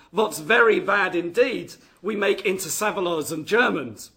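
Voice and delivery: a lightly attempted German accent; poor German accent. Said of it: "My poor German accent coming out there".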